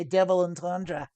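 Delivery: attempted Australian accent on double entendre; Aussie accent. Shown as a demonstration. Streamer trying Aussie for Charlotte, fake Australian accent. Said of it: "try to say double entendre with an Aussie accent".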